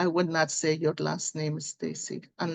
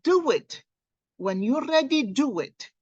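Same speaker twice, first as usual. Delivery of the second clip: urging; 5 semitones higher than usual. Real, not acted. Repeated urging to viewers.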